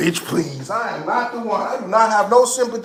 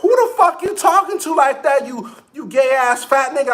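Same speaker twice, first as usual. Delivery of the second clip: mock outraged coworker; 6 semitones higher than usual. Coworker yelling, laughing retelling.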